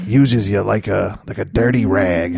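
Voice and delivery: slow, hammed-up tragic storytelling; mock somber confession. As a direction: overdramatic sad confession. Mock somber sexual confession over music.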